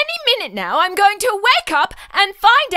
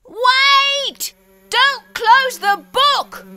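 urgent plea; 6 semitones higher, much slower than usual. Acted. Reader about to close.

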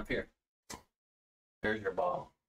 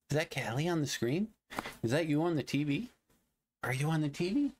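higher sing-song questions to the dog; higher voice asking the dog about the screen; higher pet talk; 5 semitones higher than usual. Real, not acted. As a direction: lilt up at the end like asking a puppy.

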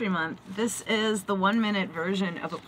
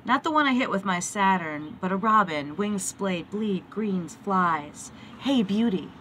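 poetry reading; 4 dB louder than usual. Acted. Recites a poem.

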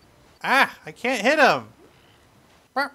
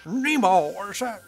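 abandoned impression; 5 semitones higher, 5 dB louder than usual. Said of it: "I, I can't do it".

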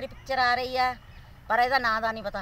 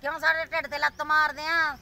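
pleading complaint; 3 semitones higher than usual. Real, not acted. Appeal to Modi on TikTok.

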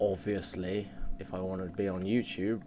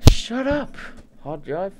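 very high yell at the hard drive; 11 semitones higher, 6 dB louder, slower than usual. Real, not acted. Gamer yelling at his noisy hard drive. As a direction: snap at the machine.

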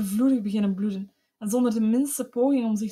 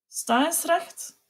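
higher, slow, strangled with held-in rage; choked voice; 7 semitones higher, much slower than usual. A narrator's reading. Husband to his wife at the table, choked and slow. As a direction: force each word past a tight throat. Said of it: "sprak hij haastig, met verkropte stem".

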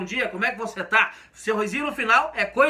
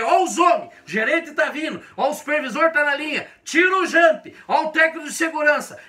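raised, urgent heads-up to workmates; warning call; 4 semitones higher, 3 dB louder than usual. Shown as a demonstration. Worker acting out the alarm to the crew, raised and urgent. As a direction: call out that the bosses are coming. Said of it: "Isso aqui quer dizer".

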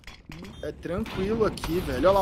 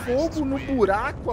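grenade warning yell; 5 semitones higher, 3 dB louder than usual. Acted. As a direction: call out the grenade loudly. Grenade callout during match.

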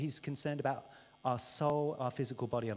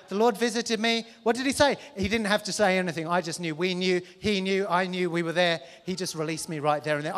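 mock boasting; 4 semitones higher, 9 dB louder than usual. Satire of boastful prophet.

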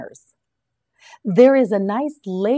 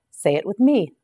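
normal talking voice

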